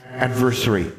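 put-on high childlike questioning; a child testing a big word; ghost girl asking. Ghost girl checking the word with Alexandra, high child voice.

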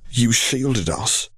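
slow, flat statement. Acted. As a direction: state it flatly, slowly. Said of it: "he stated flatly".

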